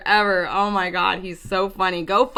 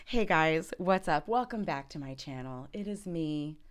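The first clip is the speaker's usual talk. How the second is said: intro take; 6 semitones lower, 12 dB quieter than usual. Pretend.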